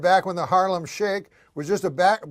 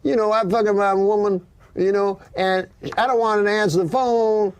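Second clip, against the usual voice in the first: imitating a guy; 6 semitones higher than usual. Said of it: "Guy goes".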